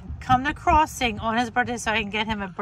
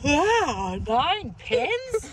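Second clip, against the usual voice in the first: mock cheerful; 2 semitones higher, 3 dB louder, much slower than usual. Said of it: "Why you sound so sunny?".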